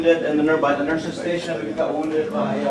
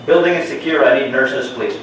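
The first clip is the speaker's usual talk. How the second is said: loud urgent call across the ward; man down shout; 7 dB louder than usual. Acted. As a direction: shout it out to the whole floor. Shooter drill, calling out to staff.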